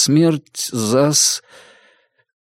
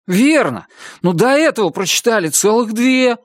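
higher, bright teasing youthful voice; cheerful young Chuck; 10 semitones higher than usual. Acted. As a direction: coax your tutor to quit for the day. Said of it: "умоляюще воскликнул Чак". (весёлый юноша, голос выше)

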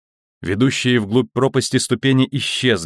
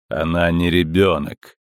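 cold metallic voice; 4 semitones lower than usual. Acted. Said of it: "металлический голос".

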